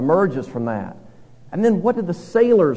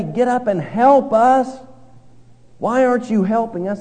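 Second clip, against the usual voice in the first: captain's demand; 7 semitones higher than usual. Retold or imitated. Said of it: "he doesn't say".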